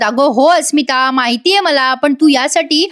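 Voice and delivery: a retold father losing patience with his daughter; understated angry questioning, pitch climbing; irritated father. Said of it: "Prataprao चिडून म्हणतात".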